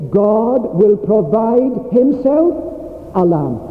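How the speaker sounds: slow, with a rise and a pause after "himself"; stress on himself. Shown as a demonstration. Preacher slowly pointing the church to "himself". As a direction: draw out "himself" before "a lamb". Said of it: "this is a very important aspect".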